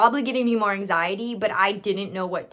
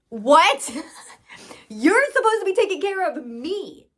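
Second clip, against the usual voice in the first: higher and laughing, playing the shocked client; laughing mock outrage; 8 semitones higher than usual. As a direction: squeal out the disbelief through a laugh.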